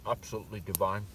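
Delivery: talking while chewing; words round a bite of food; mouth full. Real, not acted. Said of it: "Don't talk with your mouth full".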